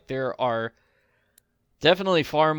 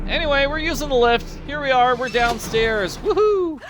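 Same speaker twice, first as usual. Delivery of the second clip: excited; 12 semitones higher, 7 dB louder than usual. Real, not acted. Excited about riding the lift.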